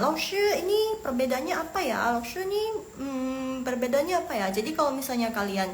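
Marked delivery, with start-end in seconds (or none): 0.0-4.5 a higher, lightly voiced curious follower; lightly put-on higher student asking; imitating followers asking. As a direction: mimic a student asking a question by DM. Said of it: "yang D M terus nanya".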